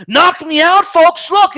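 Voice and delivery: mock pleading announcer, high and loud; hammed-up imitation, begging the audience; over-the-top imitated emotional plea; Jim Lampley. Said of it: "it's almost like he's saying".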